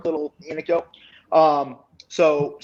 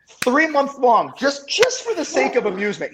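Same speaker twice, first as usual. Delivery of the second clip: amused disbelief; 10 semitones higher, 3 dB louder than usual. Real, not acted. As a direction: savor how absurd it was. Still amused, stretched.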